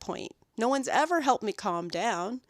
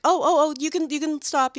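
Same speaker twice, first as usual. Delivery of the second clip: flustered owner; 6 semitones higher, 7 dB louder than usual. Retold or imitated. Owners flustered when dog yelps.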